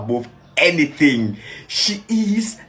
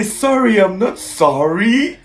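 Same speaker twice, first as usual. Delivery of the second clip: high start, drawn-out rising question; incredulous quote; 5 semitones higher, 3 dB louder than usual. Retold or imitated. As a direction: savour the line in disbelief. Astonished reaction, repeating the line.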